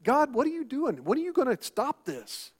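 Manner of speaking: a hint of an anguished believer praying; imitating a desperate prayer. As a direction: plead with God, voice up high. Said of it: "and you're like".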